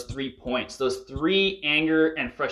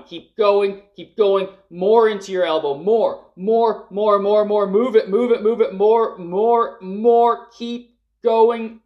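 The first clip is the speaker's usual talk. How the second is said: rapid high, loud commands of more and move it; shouted urging; 8 semitones higher, 6 dB louder, slower than usual. Real, not acted. Coach driving group through longest scream, high loud shout. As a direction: hammer each word to keep them screaming.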